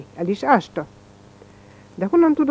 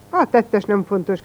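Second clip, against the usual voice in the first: put-on a slow cry telling the boy the culprit doesn't matter; cried out. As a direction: drag it out to brush the point aside. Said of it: "kiáltotta Merezsényi".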